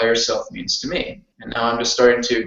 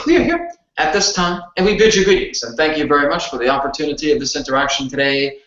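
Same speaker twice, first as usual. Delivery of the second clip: formal, higher-pitched spirit-guide voice; channeled entity; 4 semitones higher than usual. Acted. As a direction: speak as a solemn cosmic being. Channels Adronis in standing channeling.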